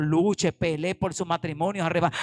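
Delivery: usual speaking voice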